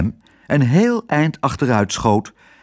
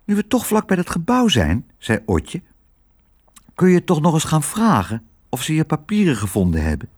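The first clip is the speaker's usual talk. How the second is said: lightly voiced girl, pitched higher; young girl's voice; 6 semitones higher than usual. Girl urging her father to go back and ask, lightly higher girl voice. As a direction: lift it into a child's gentle urging.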